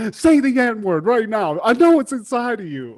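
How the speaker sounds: playful taunt at the nerds; mock goading. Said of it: "be like".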